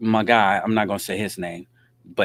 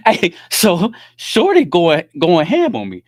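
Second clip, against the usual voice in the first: laughing disbelief; 8 semitones higher, 10 dB louder, slower than usual. Real, not acted. Still laughing after the story.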